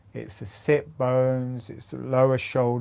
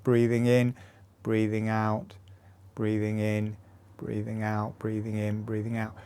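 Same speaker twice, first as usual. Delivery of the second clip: soft breathing guidance, fading quieter; quiet, rhythmic meditation-style cue; 2 semitones lower, 6 dB quieter than usual. Shown as a demonstration. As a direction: let the cues sink softer with each breath. Paces breathing with foot movement.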